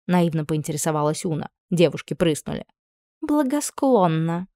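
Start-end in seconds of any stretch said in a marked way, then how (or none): 3.2-4.5 slow, higher, patronising; a know-all girl condescending to the naive one. A narrator's reading. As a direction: explain it like to a child. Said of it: "снисходительно пояснила Вайлет".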